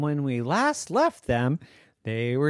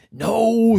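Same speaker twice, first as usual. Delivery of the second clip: firm no; 7 semitones higher, 8 dB louder than usual. Acted. Alex refuses flatly.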